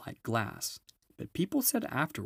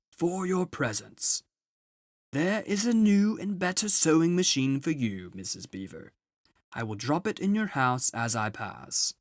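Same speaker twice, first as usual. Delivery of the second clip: high, booming jolly Father Christmas; a grand, merry old gift-giver arriving at last; Father Christmas announces his arrival to the children; 6 semitones higher, 5 dB louder than usual. Acted. Father Christmas giving presents.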